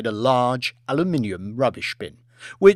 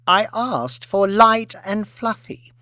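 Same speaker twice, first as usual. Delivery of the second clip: haughty complaint; 8 semitones higher, 4 dB louder, slower than usual. Acted. Aristocrat complaining about eggs.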